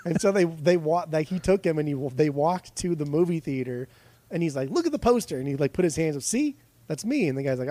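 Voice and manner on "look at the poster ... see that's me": higher, lightly excited retold boast; proud Gleason. Jackie Gleason showing the doubting shopkeeper his poster, high and proud. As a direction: point at the poster and show off, mock-proud.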